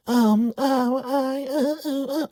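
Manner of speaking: very high, frightened stammering; terrified stammer. Retold or imitated. Woman panicking before the angry boss, very high stammering. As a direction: stammer in panic, lost for words.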